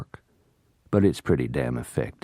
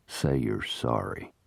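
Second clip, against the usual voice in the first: hard; 5 semitones higher, 6 dB quieter, slower than usual. Acted. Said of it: "his features turning hard".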